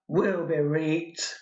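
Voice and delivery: slow Northern repeat through a laugh; laughing Northern accent. Acted. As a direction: giggle the Northern line out slowly. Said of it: "I've clearly mastered dialect".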